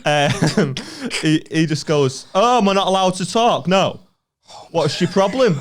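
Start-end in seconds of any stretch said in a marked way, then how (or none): 2.3-5.6 higher-pitched retort, put on; mock indignant heckler. Heckler answers back to the comedian, mock indignant. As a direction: challenge him as an affronted heckler would.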